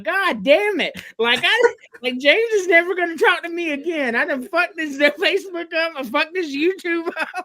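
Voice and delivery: comic "I've really blown it" wail; retold exasperation. Retells reacting to the stream ban.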